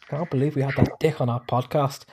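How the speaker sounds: botched Scottish that comes out Irish; Irish-sounding accent. Acted. Voicing the offended Scottish podcaster, accidentally Irish accent. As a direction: lightly attempt Scottish, slipping into Irish. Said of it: "That's Irish".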